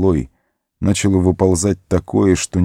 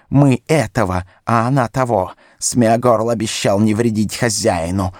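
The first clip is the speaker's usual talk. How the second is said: gloating creature voice; 3 semitones higher than usual. A narrator's reading. Gollum gloats over captured Sam.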